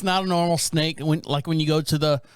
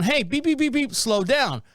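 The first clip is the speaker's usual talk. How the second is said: high mock honking driver; imitating the driver; 5 semitones higher than usual. Mocking the woman honking at the speeding cop. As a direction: honk it out like the annoyed driver. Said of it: "And she's, like, going".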